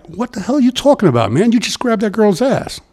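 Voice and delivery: a retold telling-off of the boss, voice up high; retold outrage. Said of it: "So I was like".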